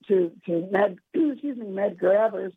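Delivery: losing their voice, hoarse and strained; a hoarse voice, clearing the throat. Real, not acted. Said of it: "I'm losing my voice here".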